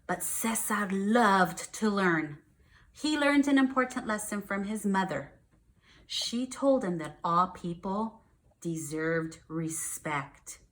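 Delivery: slow storybook reading voice; reading to children. Acted. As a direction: read each line slowly for the kids.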